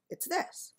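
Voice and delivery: hushed, high-pitched quoted line; a quiet high whisper of it's this; whispered discovery. Retold or imitated. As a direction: say it under your breath, pointing. Husband pinpoints the smell source.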